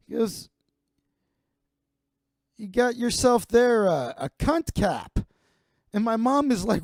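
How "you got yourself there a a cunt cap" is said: imitating crude uncle. Uncle teases nephew about hat.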